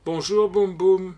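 high, loud, jubilant cheering; gleeful shouts, stretched out at the end; seven-year-old's glee. A narrator's reading. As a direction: cheer like an overjoyed little boy. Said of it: "dit avec sa gaieté de sept ans".

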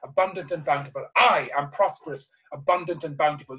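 emphatic, repeated declaration; passionate affirmation. Shown as a demonstration. Speaker showing an audience how to affirm prosperity, with passion. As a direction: punch the opening words with conviction. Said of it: "You say it with passion".

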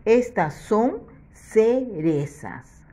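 put-on slow, clearly spaced sentence for children; slow model sentence. Shown as a demonstration. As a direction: say it slowly so they can repeat it. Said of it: "ahora sí voy a decir".

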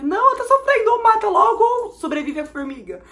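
high, loud hammed-up wail; over-dramatic tearful outburst, acted out; mock crying. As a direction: plead in exaggerated distress. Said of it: "eu começo a chorar porque".

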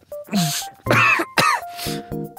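long acted flu cough; coughing fit. Voiceover artist showing how ill he feels, coughing. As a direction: demonstrate the illness with a cough. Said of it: "feeling like this".

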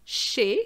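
Chez as 'shay', rising at the end; French é with no z on Chez; silent Z. Shown as a demonstration. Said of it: "the Z is silent".

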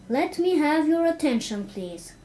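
commanding call for attention. Acted. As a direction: project to the room like a small teacher. Stuart addressing the class.

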